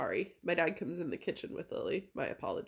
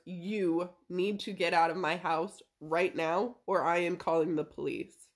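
retold firm order; 4 semitones lower than usual. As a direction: lay down the law word by word, in retelling. Retold standoff, ordering dad out.

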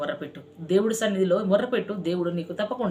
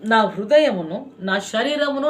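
fervent psalm; 2 semitones higher, 4 dB louder, slower than usual. Acted. Quoting psalm with fervour.

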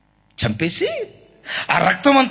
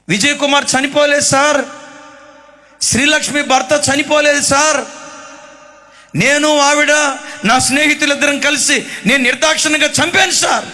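anguished outcry; 6 semitones higher than usual. Retold or imitated. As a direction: blurt the confession out, pleading. Lover confessing to police.

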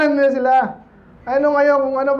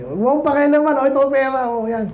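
mock dismissive husband; 4 semitones higher, faster than usual.

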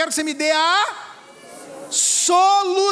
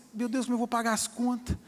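worried husband; 4 semitones lower, 7 dB quieter than usual. Retold or imitated.

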